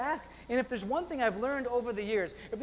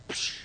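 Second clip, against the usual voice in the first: imitated gift noise. Imitates grandma producing another gift.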